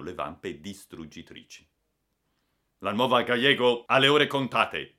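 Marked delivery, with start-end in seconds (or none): 2.8-5.0 louder, higher, moved declaration; emotional voice. A narrator's reading. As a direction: announce the ship's doom with feeling. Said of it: "disse Ortego con voce commossa". (con voce commossa e concitata)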